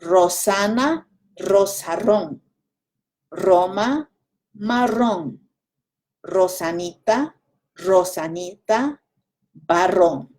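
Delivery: Rosana, Rosarón said carefully with a rolled R; careful trilled R. Shown as a demonstration. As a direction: take Marrón slowly, trilling the R. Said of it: "I'll try it a little slower".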